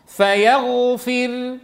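فيغفر read very slowly, the final راء light with lips rounded for the damma; demo of ishmam. Shown as a demonstration. Teacher demonstrating a Quranic stop to students, slow and precise. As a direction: stretch فيغفر and close on a silent lip rounding. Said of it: "فترقق وتشير بالضم".

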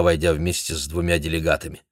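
ordinary delivery, nothing marked

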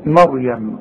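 مريم with a thin ra; light ra. Shown as a demonstration. Teacher demonstrating a thin ra. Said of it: "يبقى دي هنقول ايه".

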